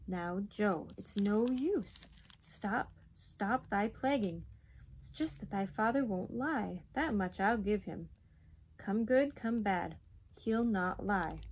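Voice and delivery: slow, measured mother's voice; patient. Acted. Mother explains father won't lie, patient. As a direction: reason with the child, dragging phrase ends. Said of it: "her voice became patient again".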